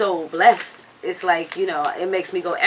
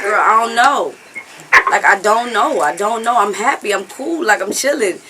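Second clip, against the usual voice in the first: higher-pitched, mock-flustered protest; retold flustered insisting; 4 semitones higher, 4 dB louder than usual. Singer answers a worried idol backstage, flustered insisting. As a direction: insist you are fine, acting out being overwhelmed. Acts out tearful backstage exchange.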